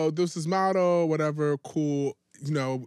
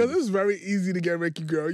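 laughing. Real, not acted. Friend teasing, laughing.

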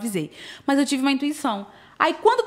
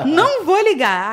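laughing repeat; 5 semitones higher, 7 dB louder, slower than usual. Retold or imitated.

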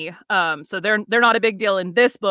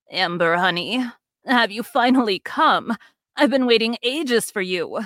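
put-on elderly woman voice. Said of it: "the elderly voice says".

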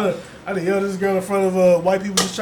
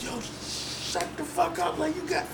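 retold angry outburst; 10 semitones higher, 9 dB quieter, much slower than usual. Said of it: "I was just like".

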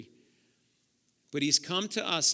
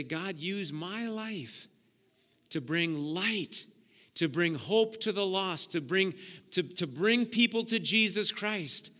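prayer; 3 semitones higher, slower than usual. Shown as a demonstration. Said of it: "I challenge you to say".

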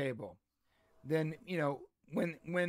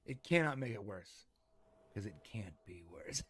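imitating deadpan; 7 semitones lower, 7 dB quieter than usual. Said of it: "The way you said that was like".

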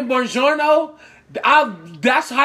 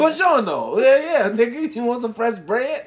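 a lightly voiced Italian shopkeeper, playful; hamming up a friendly Italian greeter; mock Italian waiter; 2 semitones higher than usual. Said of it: "they roll up on a motherfucking Italian".

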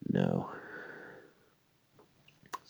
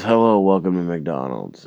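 bright, higher, louder chirpy cashier; cashier greeting; 3 semitones higher, 7 dB louder than usual. Retold or imitated. Cashier greeting a customer, higher chirpy welcome.

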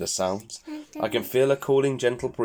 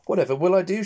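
high, louder worried cry; 9 semitones higher, 6 dB louder, faster than usual. Acted. Fretting mother pig wonders how to help, high worried cry. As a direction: wring your hands in the voice. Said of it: "she worries".

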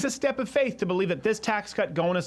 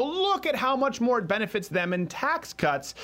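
higher, slow, drawn-out mimicry; mock indignation; 6 semitones higher, slower than usual. Host parodying a video's tax argument, mock indignant. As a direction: act out their outrage, stretching it.

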